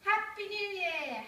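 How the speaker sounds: high, loud joyful cheer; excited greeting. Acted. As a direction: shout it in celebration. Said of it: "excitedly gave these good wishes".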